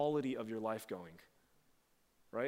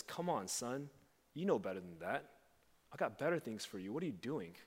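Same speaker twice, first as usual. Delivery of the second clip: softer, tender fatherly plea; soft and gentle; 3 dB quieter than usual. Acted. Father speaks to his son, soft pleading. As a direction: plead gently with your child. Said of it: "It's soft and it's gentle".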